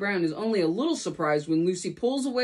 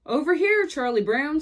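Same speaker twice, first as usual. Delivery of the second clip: high bright call across the field; 6 semitones higher, 4 dB louder than usual. Acted. Lucy calls Charlie Brown over, loud and high.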